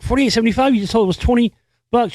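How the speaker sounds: high, questioning disbelief on "Forty-eight seventy-five"; incredulous echo. Retold or imitated. Ticket buyers to the clerk over the total, incredulous. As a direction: throw the price back as a stunned, high question.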